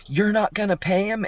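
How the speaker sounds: high, loud mock shriek; wife shrieking at her husband over the bill, hammed-up disbelief; shrill disbelief. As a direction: fire it at him in disbelief.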